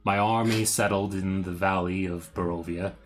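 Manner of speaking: dramatic reading. Acted. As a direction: read it like an old curse. Continues journal reading.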